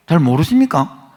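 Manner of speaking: loud, pressing challenge to the pews; loud rhetorical question. Real, not acted. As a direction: call it out to the congregation. Preacher challenges congregation at climax.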